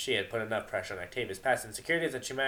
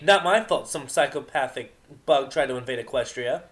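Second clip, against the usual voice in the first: defensive Vinyl; 3 semitones higher, 8 dB louder than usual. Acted.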